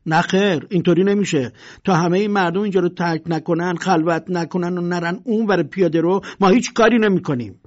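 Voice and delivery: loud, self-important refusal; haughty. Acted. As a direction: play hard to get with the crowd. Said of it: "بنا کرد به تاقچه بالا گذاشتن".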